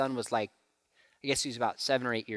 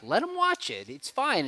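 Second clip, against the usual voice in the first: casual dismissive dad; 9 semitones higher than usual. Retold or imitated. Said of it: "I'm like".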